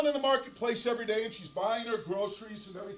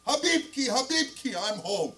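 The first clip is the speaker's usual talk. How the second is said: husband calling to his wife, acted; acted homecoming call. Husband calls out on arriving home.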